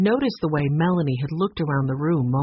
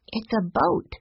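sleepily; 6 semitones higher, slower than usual. Acted. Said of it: "Sue Lee said sleepily".

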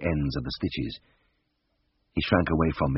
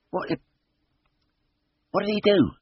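stammering dread; 13 semitones higher than usual. A narrator's reading.

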